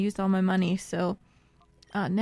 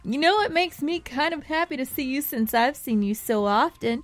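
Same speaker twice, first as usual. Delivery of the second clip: higher-pitched game character voice; hapless rival henchman; 5 semitones higher than usual. Acted. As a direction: voice a beaten rival making one last stand. Reads game rival's dialogue in voice.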